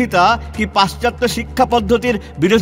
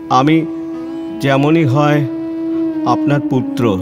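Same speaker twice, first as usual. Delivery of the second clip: lower, measured reading with short pauses; pleading letter reading; 4 semitones lower than usual. Acted. Disowned son's letter read aloud by his father, pleading.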